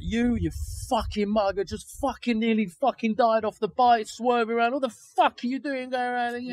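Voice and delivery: shouting down the guy who jumped out; retold shouting. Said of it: "shouting like".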